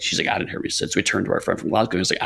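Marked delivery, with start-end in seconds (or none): 0.3-0.9 retold whisper. Michelle answering at the castle, a retold whisper.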